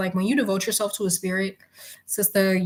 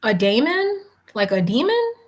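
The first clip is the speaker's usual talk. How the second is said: startled disbelief; 2 semitones higher than usual. Real, not acted. Startled by search result.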